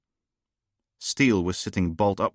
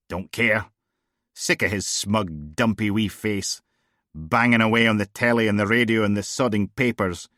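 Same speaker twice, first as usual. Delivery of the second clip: a hint of a blunt, raised-voice female DI; tossing off casual jibes, a little louder; lightly voiced brash boss; 2 semitones higher, 4 dB louder than usual. Bored boss grumbling to her officer, lightly voiced. Steele ranting about Browning.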